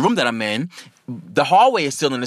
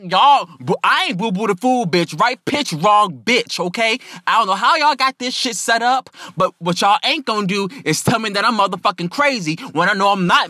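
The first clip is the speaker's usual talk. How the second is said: higher-pitched, indignant tirade; defiant ranting; 5 semitones higher than usual. Retold or imitated. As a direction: argue back as if nobody will fool you. Acted quarrel with the hospital staff.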